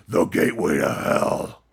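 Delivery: low, slow whispered doom voice; ominous demon whisper. Shown as a demonstration. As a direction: breathe it out like a voice from hell, low and slow.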